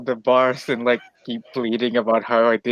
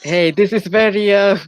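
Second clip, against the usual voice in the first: lightly voiced protesting dwarf, slightly raised; indignant dwarf; 7 semitones higher than usual. Dwarf to guards hauling him off, lightly acted indignation. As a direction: object mildly as an affronted dwarf.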